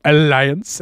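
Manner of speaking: drawn-out villainous alliance; evil villain. Retold or imitated. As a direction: say it like a cartoon villain. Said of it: "he always says it like an evil villain".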